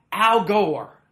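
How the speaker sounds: high, very loud mock fan cry; imitated excited outburst. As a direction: blurt it out like an overexcited fan. Fan blurts out mistaken name.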